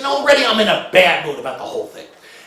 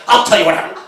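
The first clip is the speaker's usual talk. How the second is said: curt angry order; 3 semitones higher, 5 dB louder than usual. Retold or imitated.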